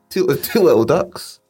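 sing-song bingo number call; bingo caller. Acted. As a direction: announce it to the bingo hall. Bingo call for twenty-two.

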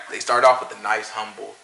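mock slow pastor. Comedian mocking a pastor who slowly opens the book, in a drawn-out preacher voice. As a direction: drag it out like a sleepy sermon opener.

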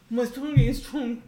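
slow, slurry mock-English accent; drawn-out drunken-sounding English accent; tipsy English accent. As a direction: imitate a tipsy guy attempting English with an accent. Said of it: "mec qui veut parler anglais mais qui est un peu bourré".

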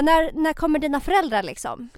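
put-on a light Finnish-accented driver asking about her parents. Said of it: "jag kan inte imitera mitt eget folk".

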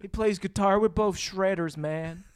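slow, badly faked politician impression; lazy-paced mock president; Bill Clinton. Politician bragging about his sax, poor light impression. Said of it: "does not even sound like Bill Clinton".

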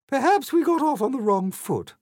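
high, loud grandiose queen voice; haughty Queen. A narrator's reading. Queen boasts to Alice about her reign, grandiose. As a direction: proclaim like a self-satisfied monarch. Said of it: "said the Queen".

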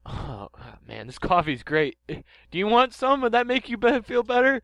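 a flustered scientist knocked over, squeaking; Professor Sycamore voice. Acted. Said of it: "Hi, I'm Professor Sycamore".

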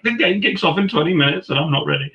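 high-pitched mock panic; retold nervous panic. Novice commentator before kick-off, retold in panic. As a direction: act out flustered alarm before going live. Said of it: "I was nervously setting up".

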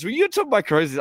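high, incredulous laughing question; mock freak-out. Robbed player questioning the stowaway, freaking out. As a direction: imitate a friend losing it in amused disbelief. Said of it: "starts freaking out".

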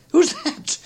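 very high, incredulous question; astonished cry. A narrator's reading. Fred seeing an unexpected visitor, crying out amazed. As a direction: shoot the pitch right up in disbelief. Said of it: "cried Fred".

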